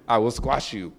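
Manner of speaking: low, soft, laughing threat; laughing mock threat. Dad answering son about baby goats, laughing mock threat. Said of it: "I'm like".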